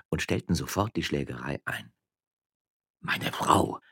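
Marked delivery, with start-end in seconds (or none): 3.0-3.8 whispered stammer. Acted. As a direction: stammer it in shock. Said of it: "stammelte Don Eugenio".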